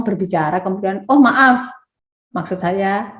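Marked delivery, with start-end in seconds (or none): 1.1-3.1 startled apology mid-sentence; quick self-correction. Retold or imitated. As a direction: blurt out the apology as if you just noticed the mistake. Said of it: "misalkan Anda ngomong".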